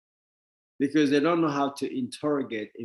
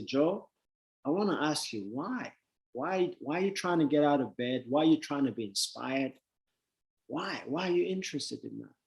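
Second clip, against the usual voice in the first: softer, gently probing questions; calm quiet questioning; 6 dB quieter than usual. Retold or imitated. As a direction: ask him quietly, almost confiding. Calmly questioning Joe.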